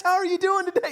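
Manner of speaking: very high put-on host voice; media voice. Shown as a demonstration. Coach's media voice demo, very high and fake. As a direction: jump way up into a fake on-camera voice. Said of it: "your media voice. And it's three octaves higher".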